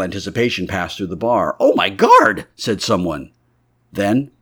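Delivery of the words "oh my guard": a high, loud shriek of horror; horrified cry. Acted. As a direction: gasp it out in shock. Onlooker horrified in bar.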